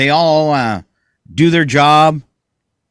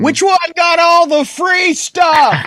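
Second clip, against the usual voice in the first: sarcastic; 11 semitones higher, much slower than usual. Acted. Joking jab at a justice.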